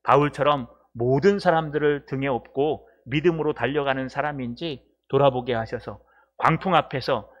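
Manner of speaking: steady, earnest closing prayer; spoken prayer. Real, not acted. Pastor thanks God after the sermon, praying. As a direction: address God in a measured, even-pitched prayer.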